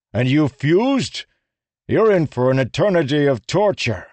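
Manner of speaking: loud, high barked order. A narrator's reading. Rlain barking orders at the rebel singers. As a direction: snap it out like a sergeant.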